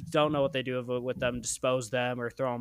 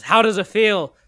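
higher, loud gloating villain line; theatrical lobster villain; ghost of Larry; 6 semitones higher, 9 dB louder than usual. Acted. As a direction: taunt your trapped captives. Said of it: "at least the ghost of Larry".

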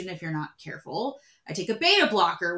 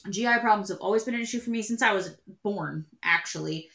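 talking through a burp; words pushed out on a burp. Real, not acted. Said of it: "Sorry, burp".

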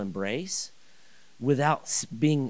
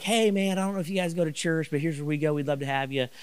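higher, quick, brightly eager church invite; 4 semitones higher, faster than usual. Retold or imitated. To neighbor Larry, an eager, fast church invitation. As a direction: pitch it like a hopeful pitch.

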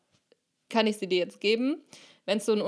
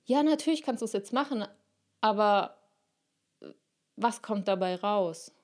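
calm loving voice. Acted. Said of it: "sehr ruhige, liebevolle Stimme".

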